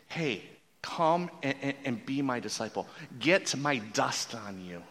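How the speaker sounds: soft, hushed and tender; gentle invitation. Retold or imitated. Rabbi gently inviting a disciple, soft and tender. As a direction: invite them close, quietly. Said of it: "He's saying this".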